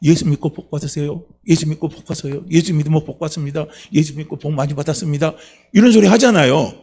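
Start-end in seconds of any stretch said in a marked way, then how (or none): 0.0-5.3 lightly acted, even-toned street greeting; clean-faced evangelism greeting. Preacher models what to say when evangelizing, composed greeting. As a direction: recite it evenly, like a practised blessing. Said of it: "얼굴 깨끗하게 하고".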